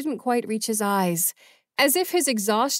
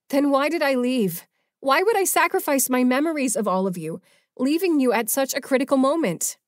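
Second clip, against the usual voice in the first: pleading; 6 semitones higher, 3 dB louder than usual. A narrator's reading. Valerie confronting Ajax, rising.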